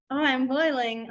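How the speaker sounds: slow, understated mock complaint; sarcastic. Shown as a demonstration. Teacher showing students how not to sign boiling, sarcastic. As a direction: say it with no real anger behind it. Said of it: "unless you're trying to be, you know, sarcastic".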